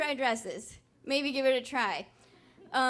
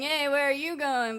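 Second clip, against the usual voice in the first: the street guy she thought was harassing her, mildly pushy; heard as a catcall; 3 semitones higher than usual. Retold or imitated. Mock menacing catcall. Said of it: "I thought he was saying".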